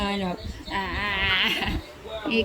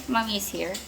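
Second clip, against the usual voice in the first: soothing; 6 dB quieter than usual. Real, not acted. Mother comforting child who misses daddy, softly soothing.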